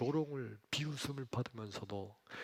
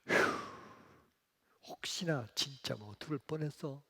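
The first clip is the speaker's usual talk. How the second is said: sighing, whispered relief; relieved whisper; 5 semitones higher than usual. Acted. Pharisees relieved Jesus died, hushed whisper.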